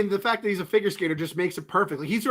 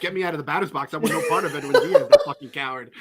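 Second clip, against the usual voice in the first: mock Trey quote through laughter. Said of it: "be like".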